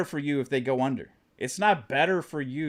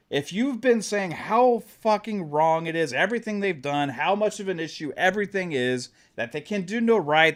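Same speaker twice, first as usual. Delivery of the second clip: passionate rant; 4 semitones higher than usual. Real, not acted. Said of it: "I'm just talking with passion".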